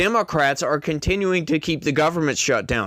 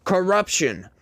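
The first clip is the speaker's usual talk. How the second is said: mocking. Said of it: "be like".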